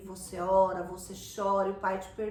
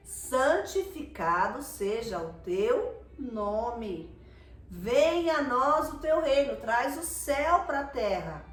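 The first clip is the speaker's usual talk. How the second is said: slow, earnest, lingering prayer; slow fervent spoken prayer; 3 dB louder, much slower than usual. Real, not acted. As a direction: pray it word by word before the church. Pastor leads the Lord's Prayer.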